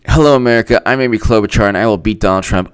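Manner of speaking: understated mock speech read; lightly voiced candidate parody; Amy Klobuchar. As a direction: recite the candidate's line with little push. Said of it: "I'm gonna read Amy Klobuchar's victory speech".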